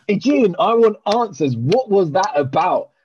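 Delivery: slow, deliberate, jokingly insistent; mock demand. Calling out the flight attendant by name, slow mock demand. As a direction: spell out each word like a mock interrogator.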